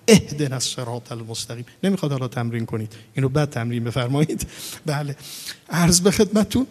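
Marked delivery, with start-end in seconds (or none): 0.1-1.7 "اهدنا" opened with a firm glottal hamza; hamza from the navel. Shown as a demonstration. Showing students the first hamza, glottal onset on "اهدنا". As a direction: start "اهدنا" with a stop pushed from the belly. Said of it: "از ناف ادا بشه".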